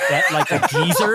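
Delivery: lightly voiced tough Cockney geezer; a hint of East End villain; Ray Winstone. Quoting a UK betting ad, lightly imitated tough-guy voice. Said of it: "in, like, the tough Ray Winstone voice".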